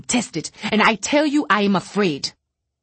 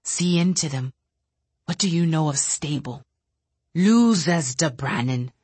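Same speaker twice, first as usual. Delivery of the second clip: bitter rant. Acted. Bitter telepath lashing out quietly.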